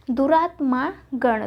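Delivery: दुरात्मा गण drawn out slowly; दुरात्मा गण, slow and separate; wrong form. Shown as a demonstration. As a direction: read out दुरात्मा गण as the error. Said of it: "नहीं होता".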